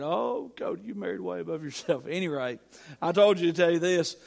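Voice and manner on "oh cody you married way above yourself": light teasing imitation. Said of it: "Every time he saw me".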